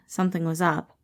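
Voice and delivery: plain reading voice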